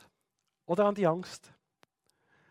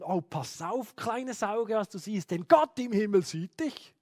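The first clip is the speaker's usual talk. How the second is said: put-on anxious child thinking; 3 semitones higher than usual. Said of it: "plötzlich so denken".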